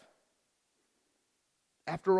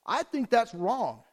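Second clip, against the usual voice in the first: retold objection; 4 semitones higher than usual. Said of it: "did they ever pipe up".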